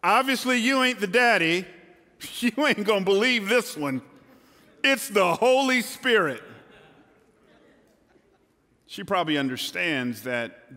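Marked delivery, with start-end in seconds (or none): 0.0-6.4 mock-sheepish girl breaking news, raised and loud; playful Mary to Joseph. Mary telling Joseph she is pregnant, mock-sheepish and playful. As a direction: act out Mary confessing to Joseph with a wink.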